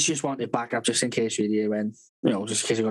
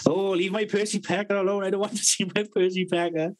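higher, whining protest; whiny boy; 6 semitones higher than usual. Retold or imitated. Autistic teen refusing the doctor, whining. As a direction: plead like a fussing teenager.

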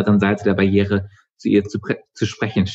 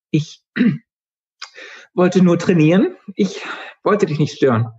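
much higher, timid apology; nervous girl; 10 semitones higher than usual. A narrator's reading. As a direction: shrink back and excuse yourself.

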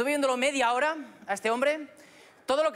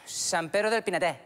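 slow, sad-faced Murcian words that turn cheerful; sad face, Murcian accent; 3 semitones lower, slower than usual. Shown as a demonstration. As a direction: start sad and end happy in Murcian. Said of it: "Cara triste, algo murciano".

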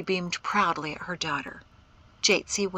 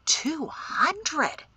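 high-pitched disbelieving question; shocked; 10 semitones higher than usual. A narrator's reading. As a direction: echo the figure in shock. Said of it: "blinked in shock".

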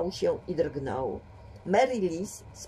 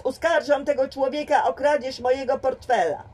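shouting; 7 semitones higher, 4 dB louder than usual. A narrator's reading. Accusation shouted before crowd.

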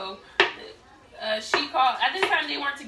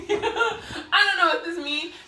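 higher, slow mock whine; imitating baffled mother; 4 semitones higher, much slower than usual. Daughter mimics mom stuck on Spanish instructions, mock bafflement. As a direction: retell mom's confusion through a laugh. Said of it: "So she's going".

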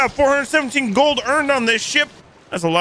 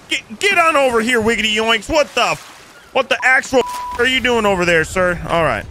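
raised, exasperated lawman voice; hammed-up sheriff; 3 semitones higher than usual. Sheriff scolds deputy and questions the pirate: exasperated.

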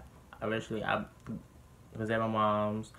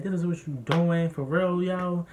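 imitated angry dad; 6 semitones higher, 4 dB louder than usual. Retold dad confronting his son.

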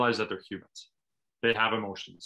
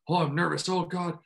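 mildly worried self-talk, slightly raised pitch; anxious overthinking; 4 semitones higher than usual. Acted. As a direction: act out a touch of pre-game panic. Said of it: "overthinking that and being like".

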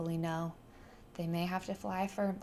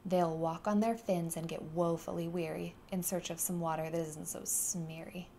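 snapping Lorax. Acted. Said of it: "snapped the Lorax, his dander was up".

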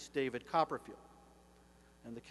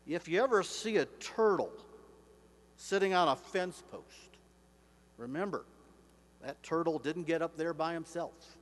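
attempted cowboy drawl; 3 semitones higher, 3 dB louder than usual. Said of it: "I can't do his drawl, but I'll try".

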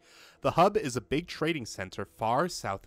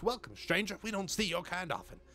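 lightly voiced guard; 8 semitones higher than usual. Reads the guard's greeting in voice.

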